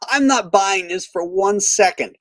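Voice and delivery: laughing. Real, not acted. Laughs at the bad accent.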